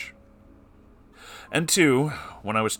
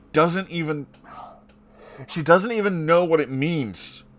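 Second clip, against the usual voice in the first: incredulous outrage; 8 semitones higher, 4 dB louder than usual. Real, not acted. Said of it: "sounds like some weird sick shit".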